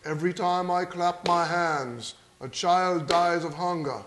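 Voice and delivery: slow, grave appeal to a crowd; acting an earnest charity speech from the stage; solemn rock-star pronouncement. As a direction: intone it slowly, with weighty pauses. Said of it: "He then says".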